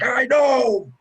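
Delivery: high, loud mock yell; hammed-up shout of "told you so"; retold exasperated shout. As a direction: yell it in vindication, high-pitched. Retold exasperated reply to friend.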